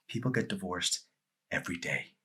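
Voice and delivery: cold quiet reply. Acted.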